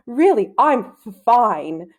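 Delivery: put-on a boy stammering, trying to sound fine; stammering out a reassurance to the teacher; nervous stammer. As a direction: catch on the f, then push through. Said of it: "he had developed a slight stammer".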